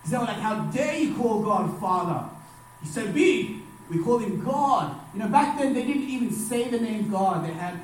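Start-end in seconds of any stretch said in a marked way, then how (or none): 0.4-5.0 slow, mildly indignant outcry; a touch of affronted disbelief; mock angry. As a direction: imitate offended believers, drawing out the words. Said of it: "got really angry".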